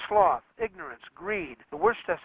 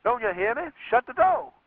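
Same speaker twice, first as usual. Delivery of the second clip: higher, louder angry command; furious father shouting the order again; mighty loud; 8 semitones higher than usual. Acted. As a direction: yell it at the girl who won't move. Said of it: "mighty loud".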